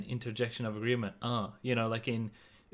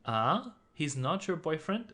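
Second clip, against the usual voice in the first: surprised ah; 5 semitones higher than usual. Shown as a demonstration. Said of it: "expressing surprise or doubt".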